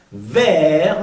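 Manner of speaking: "vers" ending on R; French "vers" as vehr; silent S. Shown as a demonstration. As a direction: drop the S of "vers". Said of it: "no se pronuncia la S".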